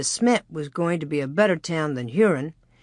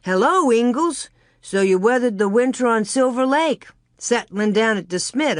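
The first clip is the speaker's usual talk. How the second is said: a friendly hail across a crowd, raised high; hearty call-out; 4 semitones higher than usual. Acted. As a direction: sing out the greeting to a known face. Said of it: "came along and sang out".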